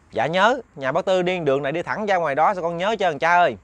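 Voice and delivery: hint of a keen young boy; lightly voiced boy.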